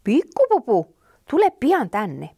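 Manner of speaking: loud calling mother. Acted. Mother calls bunny to get another card, loud. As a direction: call the bunny from afar. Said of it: "kun äiti huuteli".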